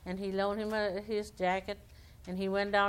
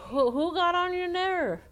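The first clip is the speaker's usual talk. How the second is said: squirrel voice; 10 semitones higher, 6 dB louder than usual. Acted. Squirrel voice, high and surprised.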